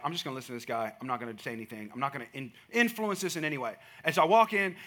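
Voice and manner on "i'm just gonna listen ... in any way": hushed, lower inner thought; thinking it quietly to yourself; a quiet, meek resolve; humble inner voice. Retold or imitated. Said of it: "I'm like".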